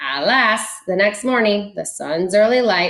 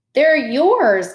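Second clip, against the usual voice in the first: louder, higher woodpecker call; 7 semitones higher, 5 dB louder than usual. A narrator's reading. Woodpecker calling up to the squirrel, loud and high. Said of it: "called the woodpecker".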